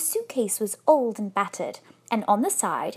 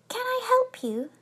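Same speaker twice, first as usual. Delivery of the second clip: very high, small polite voice; inquiring bear; 13 semitones higher than usual. A narrator's reading. Bear inquiring of the silent couple, small high voice. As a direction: ask it as a helpful little creature. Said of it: "looked at them inquiringly".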